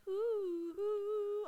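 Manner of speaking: long high crooned "ooh"; sung high oohs. Retold or imitated. Mimicking the dance scene for the co-host, high eerie oohs. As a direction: float two drawn-out oohs up high. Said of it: "like, dancing and, like".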